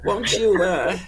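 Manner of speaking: lightly voiced gracious hostess; a hint of a fussy, polite hostess; Madame Deswona. Hostess invites the guest.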